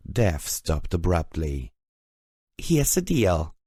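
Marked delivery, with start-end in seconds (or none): 2.6-3.5 pained whisper. A narrator's reading. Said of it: "I whispered, half moaning in pain".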